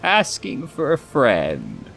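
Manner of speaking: high, slow, drawn-out aside; mock innocent. Reader joking on Pascal's behalf, mock innocent. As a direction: stretch it out high like a coy excuse.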